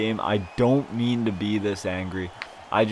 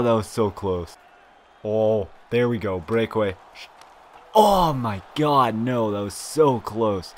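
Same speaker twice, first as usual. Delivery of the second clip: usual speaking voice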